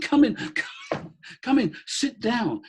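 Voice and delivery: high, bright imitation of a kind woman; woman's voice, imitated. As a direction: voice her high and sympathetic, hand pressed to chest. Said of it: "She said".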